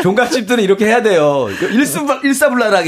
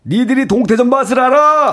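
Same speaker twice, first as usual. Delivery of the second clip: raised, punchy mock-elderly actor catchphrase; theatrical challenge in an imitated voice; Shin Goo impression; 5 semitones higher than usual. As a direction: belt it out like the veteran actor's famous line. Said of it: "아, 신구 버전".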